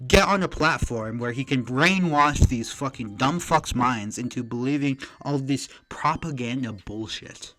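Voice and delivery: loud, heated ranting; angry rant. Real, not acted. Streamer rants at Hasan over his diploma, loud and angry.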